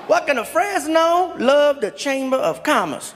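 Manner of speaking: mock delighted card read. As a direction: read it out thrilled.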